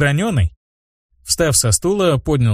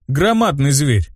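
plain reading voice

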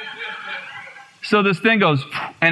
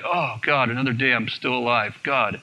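low, soft, weary groan of words; mild, deflated complaint sinking lower; morning dread; 4 semitones lower, 4 dB quieter than usual. Retold or imitated. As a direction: grumble it like getting up is a struggle. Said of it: "mornings were a real struggle".

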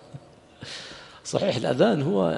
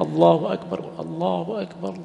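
raised, drawn-out call; 3 semitones higher, slower than usual. Shown as a demonstration. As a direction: call it out full and slow like the adhan. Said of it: "يقوم يعني يؤذنه بجانبه".

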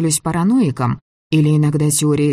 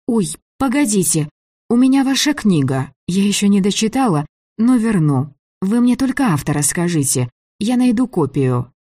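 higher-pitched heroine, suddenly remembering and eager; flustered young heroine; 6 semitones higher than usual. Acted. Girl stopping a departing man over his book, urgent and higher. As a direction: voice her urgent plea, pitched up.

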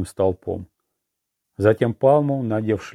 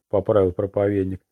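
plain reading voice

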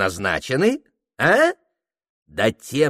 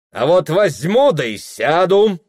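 higher, louder teasing lilt; defiant singsong; 7 semitones higher, 5 dB louder than usual. A narrator's reading. Anfisa defying the mistress, smiling singsong. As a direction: sing it at her with a smile. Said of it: "улыбчиво пропела Анфиса".

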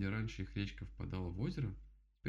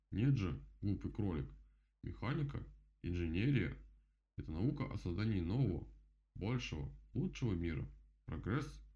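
seething beaver. Acted. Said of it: "кипел Кастор".

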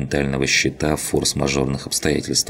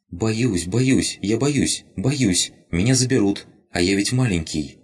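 higher, repeated scared little voice; frightened rabbit; 6 semitones higher than usual. Acted. Rabbit tells Lina it is afraid, higher frightened voice. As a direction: tremble out the fear like a tiny creature.

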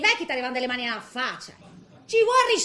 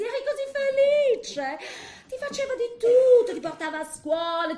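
guilt-tripping mother; 3 semitones higher than usual. Retold or imitated.

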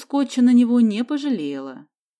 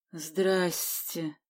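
bewildered; 2 semitones lower, 7 dB quieter than usual. A narrator's reading. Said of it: "растерянно произнёс Вася".

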